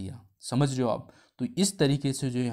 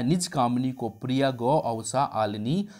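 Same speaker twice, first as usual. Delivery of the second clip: sarcastic reply. Retold or imitated. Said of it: "और जवाब में आया".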